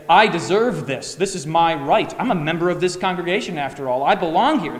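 mock-demand it like someone barging in; entitled angry demand. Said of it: "shove your way into the door and say".

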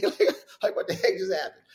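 high, laughing what-the-heck; laughing disbelief. Retold or imitated. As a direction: laugh through the question. Repeats reaction laughing.

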